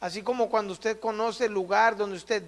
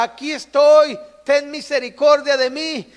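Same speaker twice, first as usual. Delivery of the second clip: loud, raised cry for mercy; imitated shouting; 4 semitones higher, 7 dB louder than usual. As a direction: shout to be noticed, as the blind beggar. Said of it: "Él gritaba y decía". (imitando al ciego que grita)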